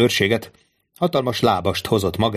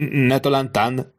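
slow, higher mock-echo of „Ne talántán?”; hissed back; 4 semitones higher, slower than usual. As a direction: throw „Ne talántán?” back slowly, raised and indignant. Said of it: "sziszegte Danglars". (lassú, felemelt hangú, felháborodott visszakérdezés: „Ne talántán?”)

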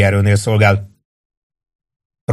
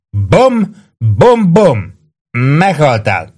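high, punchy pretend gunshots; mock-triumphant bangs; playful shooting; 5 semitones higher, 4 dB louder, much slower than usual. A narrator's reading. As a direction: fire make-believe shots with your voice. Drunk man pretends to shoot.

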